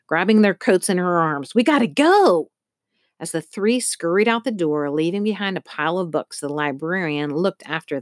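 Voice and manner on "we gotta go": high, loud call to leave; urgent call. A narrator's reading. Early hurrying the family out, urgent raised call. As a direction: push them out the door, pitched up high.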